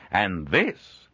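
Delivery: booming cheerful peddler; hearty trader voice. Acted.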